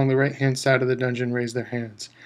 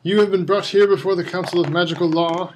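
a higher, louder stern Crouch; clear stern judge; 5 semitones higher, 5 dB louder than usual. A narrator's reading. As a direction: pronounce each word clearly, like a cold judge. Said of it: "he said clearly".

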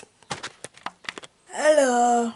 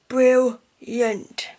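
pleased; 6 dB louder than usual. Real, not acted.

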